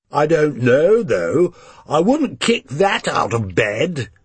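leer over at the waitress; leering drunk. A narrator's reading. Drunk diner leers about the waitress to friends. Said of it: "One then says, gesturing in my direction".

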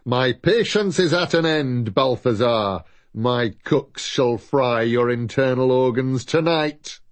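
a hint of a cruel, impatient lord; menacing villain. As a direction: threaten him coldly. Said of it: "came the voice from beyond the door".

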